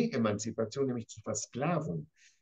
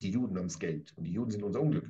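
mock Nazi slogan; 7 semitones lower, faster than usual. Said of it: "Das ist eine Nazi-Terminologie".

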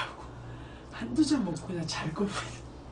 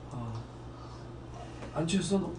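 ordinary talk

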